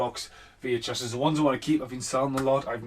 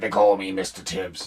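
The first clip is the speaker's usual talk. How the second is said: Sidney Poitier; 3 semitones lower, 5 dB louder than usual. Retold or imitated. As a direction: deliver it like a stern screen legend. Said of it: "Sidney Poitier with".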